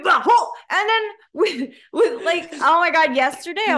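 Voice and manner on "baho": baho said with a breathy h, loud and firm; correct pronunciation. Shown as a demonstration. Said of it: "You gotta say".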